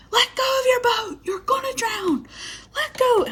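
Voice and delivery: high, breathy whispered urging; mock-panicked high whisper from the riverbank; urgent warning. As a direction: hiss the warning like a panicked friend. Tyler urging her to let go.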